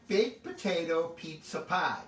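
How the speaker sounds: BAKED POTATO PIZZA PIE spoken carefully, word by word; careful tongue twister. Shown as a demonstration. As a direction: take your time over "baked potato pizza pie", leaning on BAKED. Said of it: "if I could say this, uh, at one sentence".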